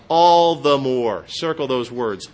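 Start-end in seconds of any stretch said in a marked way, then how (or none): 0.1-1.2 slow, louder cry of all the more. Retold or imitated. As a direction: call it out loud and slow like a pleading beggar. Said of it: "he kept crying out what?".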